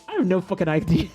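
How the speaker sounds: chuckling through the words; laughing. Retold or imitated. Telling the doctor she honestly doesn't know, laughing. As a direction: laugh as you admit it.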